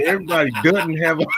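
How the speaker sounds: quick, country-style slip; country dialect. Retold or imitated. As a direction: toss it off in a country way. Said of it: "I just sounded so country".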